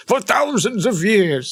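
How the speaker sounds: slow, high, dramatic trailer read; movie trailer voice. Retold or imitated. Reading a scam line as a movie trailer voice. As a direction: announce it like an epic movie trailer. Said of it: "some kind of movie trailer".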